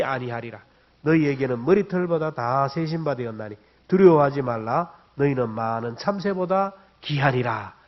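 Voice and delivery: scripture recitation. Real, not acted. Preacher leads congregation in reading Matthew together, scripture recitation. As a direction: read the verse out solemnly for all to follow. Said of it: "함께 읽겠습니다".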